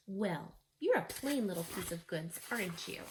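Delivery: put-on a light Yorkshire housekeeper's accent, blunt and plain; Yorkshire vowels, lightly done, sizing the girl up. Housekeeper sizing up Mary on the train, mild Yorkshire accent. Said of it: "said in her Yorkshire accent".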